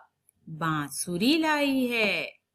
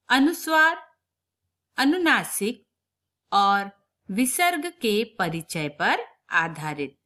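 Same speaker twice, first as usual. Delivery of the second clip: emphatic title reading. Shown as a demonstration. Teacher announces worksheet topics to the class. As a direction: call out the terms like a heading. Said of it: "reading worksheet title emphatically".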